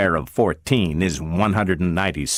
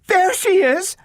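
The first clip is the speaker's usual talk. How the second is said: very high, louder relieved call; mother's cry; 3 dB louder than usual. A narrator's reading. Gloria's mother spots her and cries out loud and high. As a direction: call out across the room to a found child. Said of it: "the cry behind her".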